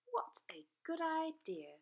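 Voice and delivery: high eager dragon pupil; Zog's voice. A narrator's reading. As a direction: pipe it up gladly. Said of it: "said Zog".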